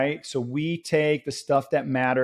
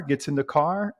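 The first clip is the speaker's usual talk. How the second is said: usual speaking voice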